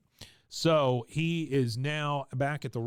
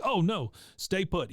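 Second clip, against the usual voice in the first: mock order; 6 semitones higher, 3 dB louder than usual. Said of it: "he says to everybody".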